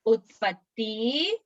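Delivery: slow, stretched words with lifted endings; slowly, for repeating. Shown as a demonstration. Teacher leads children repeating the memory verse, slowly. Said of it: "मैं धीरे धीरे बोलूंगी".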